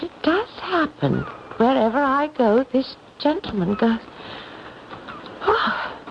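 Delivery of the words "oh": breathless gasping laugh; winded from the steep climb; out of breath. Acted. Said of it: "I'm quite out of breath from the climb".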